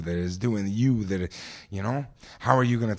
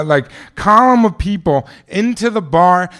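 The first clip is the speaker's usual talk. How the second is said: ordinary talk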